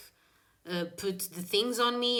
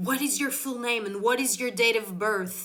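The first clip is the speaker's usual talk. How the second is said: insistent; 3 semitones higher, 3 dB louder than usual. Retold or imitated. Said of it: "because he insisted".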